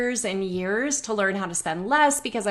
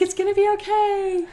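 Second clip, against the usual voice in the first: reassuring; 10 semitones higher than usual. Retold or imitated.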